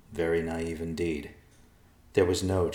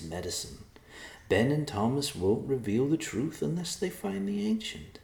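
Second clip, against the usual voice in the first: put-on higher-pitched old man reassuring his daughter; calming voice; 8 semitones higher than usual. A narrator's reading. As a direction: talk her out of her worry. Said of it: "Nicholas said in a calming voice".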